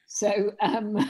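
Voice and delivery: breathy whispered hesitation; whispering. Real, not acted. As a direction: drop to a whisper.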